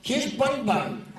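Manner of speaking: high, slow, sing-song lady; crazy woman voice. Retold or imitated. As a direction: mimic a dotty pet owner. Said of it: "this woman talked like this".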